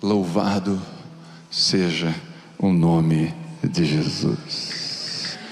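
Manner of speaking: low, slow, reverent praise. Shown as a demonstration. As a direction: say it softly, giving glory away. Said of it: "você vai dizer assim".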